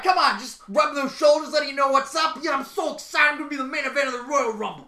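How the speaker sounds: loud, high, excited wrestler; pumped-up wrestling promo voice; Seth Rollins. Acted. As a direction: hype yourself up like a headliner. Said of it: "Seth Rollins is coming".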